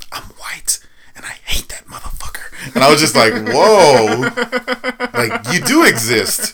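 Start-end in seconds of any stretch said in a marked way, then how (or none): 0.1-2.2 unvoiced, secretive whisper. Nurse confiding her dislike of the president in a whisper. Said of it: "under her breath". 3.3-6.5 amazed. Retold or imitated. Retold amazed reaction.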